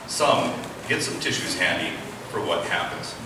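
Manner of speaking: ordinary delivery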